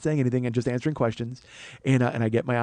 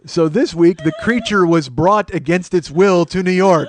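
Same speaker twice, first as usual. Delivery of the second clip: slow, louder, dramatic recap; mock episode narrator; 3 semitones higher, 6 dB louder, slower than usual. Comedian summing up this week's episode, mock-dramatic narrator. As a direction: announce it like a creature feature.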